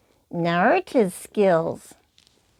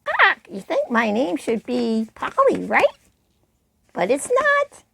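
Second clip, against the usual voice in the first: parrot voice. Shown as a demonstration. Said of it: "make the voice different from their own".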